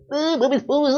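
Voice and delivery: high, congested voice as if sick with a cold; nose blocked by a cold, voice pitched high; stuffy cold voice. Shown as a demonstration. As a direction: talk like your nose is blocked with flu. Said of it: "É assim que você fica quando você tá gripado".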